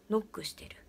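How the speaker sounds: ordinary delivery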